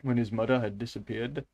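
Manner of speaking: put-on uncertain Russian-accented reading; careful Russian accent drifting elsewhere; attempted Russian accent. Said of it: "Or is this Indian?".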